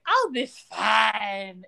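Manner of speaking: very slow, dragged-out reassurance; imitating a hungover model, slurring it slowly; drunk model. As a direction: say it slowly like someone still drunk. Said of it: "she's like".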